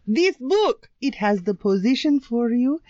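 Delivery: badly faked Swedish accent for ad copy; attempted Swedish accent. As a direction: read it in dodgy Swedish accent. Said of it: "This is your best Swedish accent".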